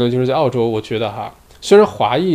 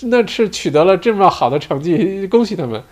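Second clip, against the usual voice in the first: imitating cheerful passerby; 6 semitones higher than usual. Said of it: "然后大街上的民众就说".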